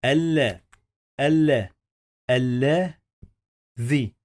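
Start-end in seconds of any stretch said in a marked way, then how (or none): 2.3-4.1 الذي with the lam doubled and held. Shown as a demonstration. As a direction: lean on the double l in الذي slowly. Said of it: "هننطق حرف اللام مرتين".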